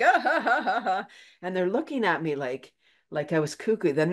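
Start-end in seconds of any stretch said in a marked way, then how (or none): 0.0-1.1 mock old lady laugh. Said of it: "like this old lady laughing on her bike".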